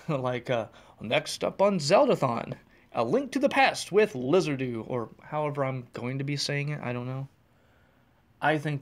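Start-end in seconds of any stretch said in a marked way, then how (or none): 1.0-4.8 pretend announcer. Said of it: "have my voice out there saying".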